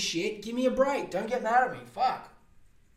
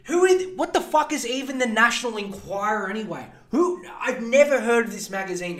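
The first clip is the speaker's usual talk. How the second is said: pitched-up, incredulous "who"; mock outrage; 4 semitones higher than usual. Podcaster ranting at a tabloid, incredulous high-pitched outburst. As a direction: squeak the question in disbelief.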